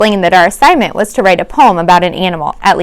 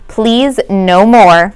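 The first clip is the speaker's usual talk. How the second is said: firm; much slower than usual. Acted. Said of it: "Missus Brisbane said firmly".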